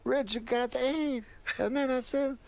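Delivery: Pryor tells the doctor story in a high voice; Richard Pryor impression. Impersonating Richard Pryor bit.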